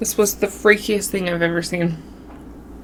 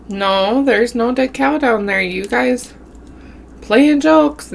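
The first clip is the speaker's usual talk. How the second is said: mild mock anger; 4 semitones higher, slower than usual. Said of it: "he's mad".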